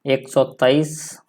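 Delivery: slow, spaced एक सौ तेईस; teacher reading एक सौ तेईस in Hindi slowly. Shown as a demonstration. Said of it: "Hindi में क्या लिख सकते हैं".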